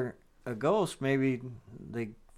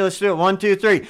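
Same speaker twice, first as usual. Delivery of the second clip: shouting the count; loud count-in; 5 semitones higher, 8 dB louder than usual. Real, not acted. Counting into a scream test.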